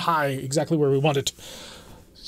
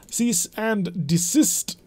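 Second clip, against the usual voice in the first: mock formal; 5 semitones higher, much slower than usual. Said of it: "I'll put on airs of some description".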